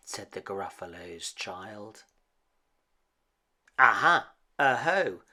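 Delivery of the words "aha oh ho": excited discovery. Acted. Child discovers track in snow.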